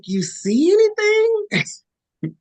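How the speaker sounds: very high, very slow imitation of the sister; sister asking. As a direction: stretch the question out, high and drawn. Sister voiced on phone call.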